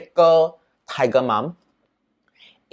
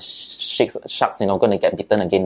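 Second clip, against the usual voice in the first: grandma's pity; 4 semitones lower than usual. Retold or imitated. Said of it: "be like".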